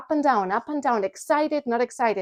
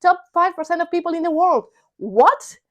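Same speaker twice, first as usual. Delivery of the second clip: giddy boasting; 9 semitones higher, 4 dB louder than usual. Retold or imitated. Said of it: "I'm like".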